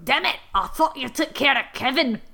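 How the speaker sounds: lightly voiced grumbling gnome; annoyed gnome. Narrator voices gnomes fed up with Kevin, annoyed gnome. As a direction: put on an exasperated gnome voice.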